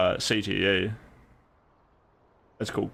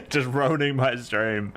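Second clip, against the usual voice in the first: slow words through laughter; laughing; 3 semitones higher than usual. Real, not acted. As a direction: laugh it out slowly. Laughing while speaking.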